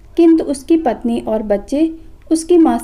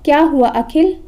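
mild call from another room. Acted. Mother calling to her son from the kitchen, lightly raised. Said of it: "kitchen से ही आवाज़ लगाई".

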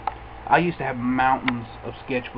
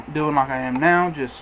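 talking around pipe stem; speaking with pipe clenched; pipe in mouth. Real, not acted. Seen 0: Pipe stem held in mouth corner while talking, hand on bowl.

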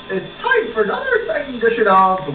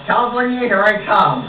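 high excited, California, here I come; excited cheer; 5 semitones higher, 4 dB louder than usual. Acted. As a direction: cheer it out, thrilled. Gleeful exclaim.

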